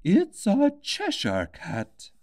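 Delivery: slow, high, lofty duchess voice; haughty Duchess. A narrator's reading. The Duchess loftily tells Alice about the cat, slow and high. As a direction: drawl it out like a superior duchess.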